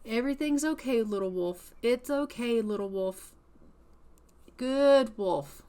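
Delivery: placating singsong, pitch rising and dropping; anxious soothing. Acted. Frightened woman calming a little wolf, anxious soothing. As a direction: coax the animal like a nervous dog owner.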